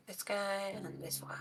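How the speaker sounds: whispering. Real, not acted. GM counting tokens quietly.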